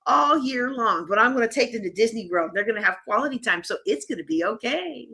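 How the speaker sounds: mock cheerful, sarcastic plan. Coach mocking overcommitted parents, sarcastic. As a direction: play it up, dripping with sarcasm. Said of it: "the sarcasm in my voice".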